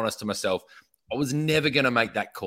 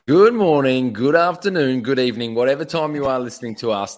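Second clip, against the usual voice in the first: big announcer greeting; 2 semitones higher, 8 dB louder than usual. Acted. Podcast host opening greeting.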